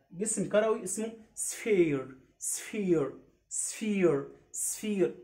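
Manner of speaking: سفير said "sfeer" with a long ee; teacher modelling sphere; sphere drill. Shown as a demonstration. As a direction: repeat سفير slowly and clearly. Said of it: "قلت سفير ما قلتش سفير".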